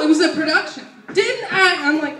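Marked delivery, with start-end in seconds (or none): 1.1-1.8 loud, higher mock scolding; yelled mom impression; imitating mom yelling. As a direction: scold like a theatrical mother. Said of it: "yell at us".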